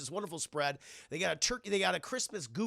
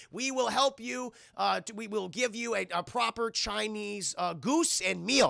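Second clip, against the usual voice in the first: mock Chinese accent; 3 semitones higher, slower than usual. Retold Chinese restaurant owner, accented.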